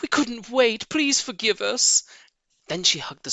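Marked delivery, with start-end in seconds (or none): 0.0-2.0 light, higher wife's voice; a hint of an apologetic vixen; mildly voiced Missus Fox. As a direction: plead gently for his pardon. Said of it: "cried Missus Fox".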